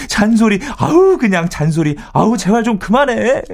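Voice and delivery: high-pitched, fed-up acted cry; exasperated outburst. Husband sick of wife's nagging, exasperated outburst. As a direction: burst out pleading for it to stop. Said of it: "하면서 소리를 지르고 싶은 심정이라니까요".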